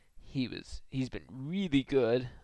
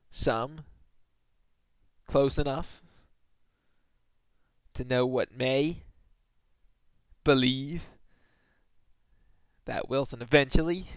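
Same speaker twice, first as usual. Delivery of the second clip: mocking singsong. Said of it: "that is just so full of non-certainty".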